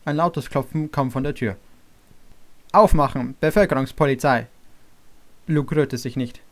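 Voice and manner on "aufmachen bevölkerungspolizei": loud, commanding fake police call through the door; mock police shout. Mark pranking Luke through the door, loud mock police shout. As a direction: bang out the order like a cop.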